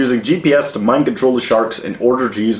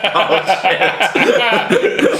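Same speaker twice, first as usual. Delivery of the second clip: surprised; 8 semitones higher than usual. Retold or imitated. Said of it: "And I was like".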